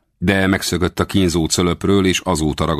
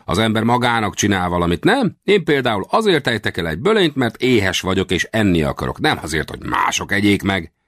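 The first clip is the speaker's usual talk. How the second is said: argumentative little westerner; 6 semitones higher than usual. Acted.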